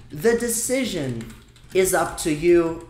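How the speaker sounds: slow "The decision is up to you" with "is" pushed loud; slow model phrase. Shown as a demonstration. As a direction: dictate it slowly, leaning on "is". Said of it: "Em vez de falar". (frase lenta, com "is" mais forte)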